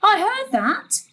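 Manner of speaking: high, loud, slow indignation; indignant what. Acted. Mother overhearing gran's confession, loud indignant. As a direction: bristle as you catch her out.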